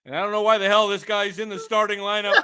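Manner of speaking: stadium announcer reading the lineup. Pretend. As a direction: announce it like a ballpark PA. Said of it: "how's that for a P A?".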